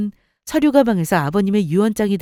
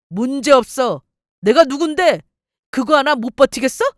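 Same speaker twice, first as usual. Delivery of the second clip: louder, arrogant bragging; cocky boast; 3 semitones higher, 5 dB louder than usual. Acted. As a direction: puff himself up over her. Husband boasts despite ruin. (거만하게 큰소리치는 말투)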